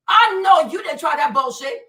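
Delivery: real outrage boiling over on the repeat. Real, not acted. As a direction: raise it and punch the repeat.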